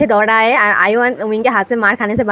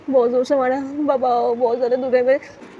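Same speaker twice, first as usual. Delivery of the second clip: groaning in pain; 2 semitones higher than usual. Acted. Beaten grandfather groaning on sofa.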